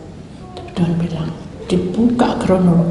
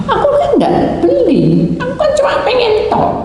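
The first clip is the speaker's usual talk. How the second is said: whiny mock protest. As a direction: wheedle it out, stretched and high. Protesting to God in retold dialogue.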